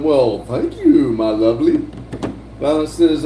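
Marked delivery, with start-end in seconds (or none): 0.0-1.8 playful mock flattered. Streamer answers a chat compliment, playfully mock flattered. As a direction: stretch the thanks, then drop low.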